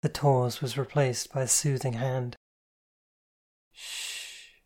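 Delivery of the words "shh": unvoiced hushing whisper; breathy shushing sound; soft whisper. A narrator's reading. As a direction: hush her tenderly in a whisper. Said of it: "she whispered".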